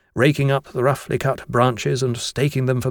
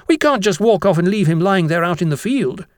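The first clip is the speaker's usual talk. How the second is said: high-pitched schoolboy protest; Jennings protesting; 6 semitones higher, 3 dB louder than usual. A narrator's reading. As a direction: plead the case to the teacher. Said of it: "Jennings protested".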